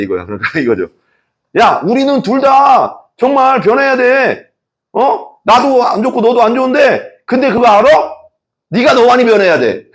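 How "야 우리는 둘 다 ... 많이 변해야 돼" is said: sweet-sounding scold with a sly laugh; mock self-righteous. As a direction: ham up the self-centered friend, then slip in the jab. Mocking self-centered speaker.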